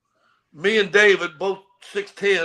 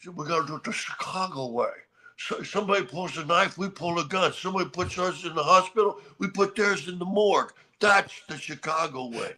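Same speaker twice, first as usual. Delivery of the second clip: Sean Connery quote. Retold or imitated. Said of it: "that's Sean Connery".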